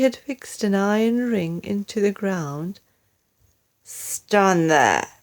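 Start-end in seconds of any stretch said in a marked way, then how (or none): 3.8-5.1 a firm, louder order; lightly voiced command. Husband orders wife to the ring, firm command.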